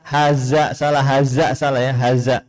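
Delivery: haza com z zumbido, sem língua nos dentes; wrong za as z. Shown as a demonstration. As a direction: buzz a plain z in haza, the wrong way. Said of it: "bukan cuman za".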